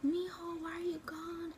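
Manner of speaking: high, pleading wail of a grieving mother; retold grief, voice lifted high; imitating mom's crying. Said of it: "she was yelling at God".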